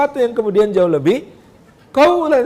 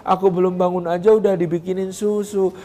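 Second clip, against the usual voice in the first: put-on delighted child; 5 dB quieter than usual. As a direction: coo like a thankful kid. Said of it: "Anaknya bangun".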